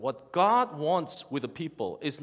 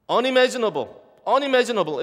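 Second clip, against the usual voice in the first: awed emphasis; 7 semitones higher, 6 dB louder, much faster than usual. Acted. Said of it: "repeated exclamation".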